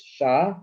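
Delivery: SHALOM split, SHA, long gap, LOM; syllable by syllable. Shown as a demonstration. Teacher reading the transliteration like this, syllable by syllable. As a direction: sound out "shalom" in two separate pieces. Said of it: "to English like this".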